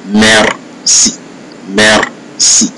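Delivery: "merci" as "mair-see", E as in "best"; French "merci"; open French E. Shown as a demonstration. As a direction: say "merci" in two separate syllables with an open E. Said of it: "the same E sound like a burst".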